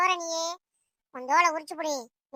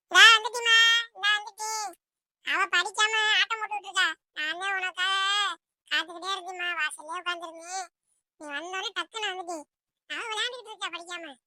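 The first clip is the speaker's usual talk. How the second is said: put-on tattling child; 5 semitones higher, 5 dB louder than usual. Child tells mother the other one played, tattling. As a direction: eagerly tell on the sibling.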